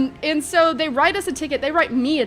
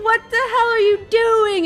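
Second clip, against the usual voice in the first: high, loud indignant outburst; outraged; 10 semitones higher, 5 dB louder than usual. Retold or imitated. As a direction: demand it in angry disbelief. Angrily confronting the cops.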